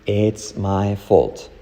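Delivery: "It's" opened toward "ets", slowly. Shown as a demonstration. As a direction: say "It's my fault" slowly, with an E-like first vowel. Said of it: "Y como E, it's".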